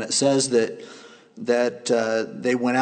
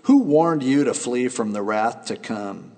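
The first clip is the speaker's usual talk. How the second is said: booming prophet denouncing hypocrites; stern rebuke; 3 dB louder than usual. Acted. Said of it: "he said".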